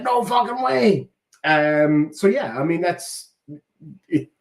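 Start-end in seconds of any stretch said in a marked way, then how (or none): 0.0-1.1 high, drawn-out retold astonishment; amazed disbelief. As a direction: imitate a waitress reacting in stretched, high-pitched disbelief. Waitress amazed on hearing the voice.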